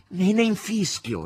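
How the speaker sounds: high, loud and slow; carefree shout. Acted. Margherita answering the master from the corridor, high and carefree. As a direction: toss it back gaily. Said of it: "rispose Margherita dal corridoio".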